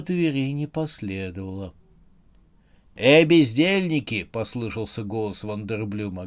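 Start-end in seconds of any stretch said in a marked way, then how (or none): 3.0-4.2 loud call to the henchmen. Acted. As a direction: shout for the lazy lot. Wanderblum calls his men.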